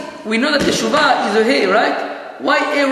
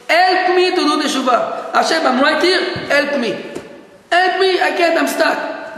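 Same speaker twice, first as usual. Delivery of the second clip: acted plea; 3 semitones higher than usual. Person stuck praying to Hashem for help, acted pleading. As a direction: beg for help, acting out someone stuck.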